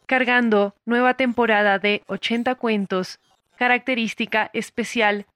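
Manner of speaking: measured, segmented system-status read; computer system announcer. Acted. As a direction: announce it like a program loading a bulletin. Plays a computer reading a bulletin.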